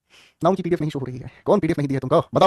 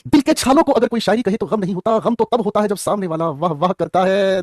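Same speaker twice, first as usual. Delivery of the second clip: slow, lifted mushaira-style delivery; shayari flourish; slower than usual. Shown as a demonstration. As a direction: perform the couplet for applause. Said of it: "recited again with flourish". (मुशायरे वाले अंदाज़ में)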